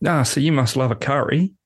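put-on Australian accent. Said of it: "I'll give the accent again".

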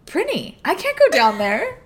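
mock terrified plea; retold fear. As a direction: plead like you're scared to go. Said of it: "I said".

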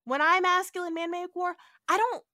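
lightly voiced swaggering captain; a hint of chest-puffing hero; hammed-up masculine captain; mock macho Kirk. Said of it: "Kirk has to be real masculine".

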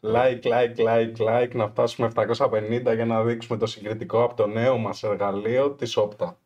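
quick, abrupt street-hawker pitch; rapid plug, faintly like a hawker; street vendor patter. Real, not acted. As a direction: reel it off like a travelling vendor. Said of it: "μου θύμισε αυτούς τους πλανόδιους που".

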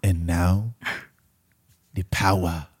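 put-on lightly performed African accent. Host recites a movie line on demand, African accent. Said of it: "my African accent on demand".

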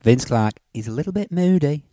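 purring innuendo; low flirty persona voice. Pretend. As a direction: play the cheeky lothario. Doctor Love persona throughout.

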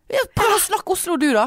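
high put-on Oslo dialect; mock the Oslo accent. Switching to a mocking dialect.

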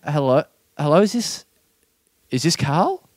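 lightly attempted lady caller; a half-hearted hint of a woman's voice; non-feminine feminine voice. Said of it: "I have to do a non-feminine, feminine voice".

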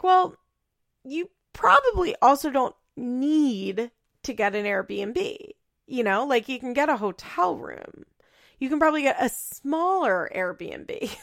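mock exasperated reply; incredulous retort. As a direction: talk back like you can't believe her. Imagined retort to Amber.

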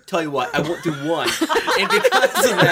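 squeaky bickering rat chorus. Acted. Power move bravado voice.

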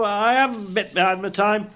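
high, apologetic admission; meek clerk. A narrator's reading. Bob admitting lateness to Scrooge, meekly apologetic. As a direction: own up in a timid high voice.

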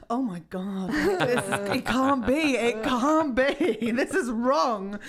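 drawn-out, laughing mock dismay; hammed-up, slow disbelief; mock horror. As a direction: play a child's horrified disbelief for laughs. Imagines child horrified at mirror.

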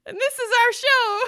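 high, loud laughter into words; laughing. Real, not acted. Host cracking up on mic: laughing. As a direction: burst out laughing then speak through it.

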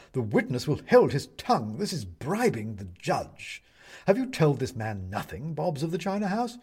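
stern rebuke from the bench; owl judge. Acted. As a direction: question the witness pompously.

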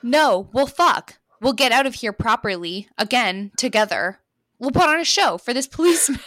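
rally him with fierce resolve; defiant rallying cry. Acted. Heroine rallying her wounded lover, loud and defiant.

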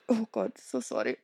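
mumbled low after a burp; burping apology. Real, not acted. To viewers after a burp, low and muffled. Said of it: "I need to burp".

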